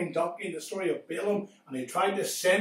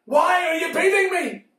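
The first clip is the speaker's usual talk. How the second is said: pleading donkey; 4 semitones higher than usual. Acted. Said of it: "and the donkey said".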